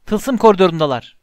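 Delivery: high, loud shriek of alarm; a loud, high raise-the-alarm cry. A narrator's reading. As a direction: scream the news to the castle. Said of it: "diye haykırdı Peeves".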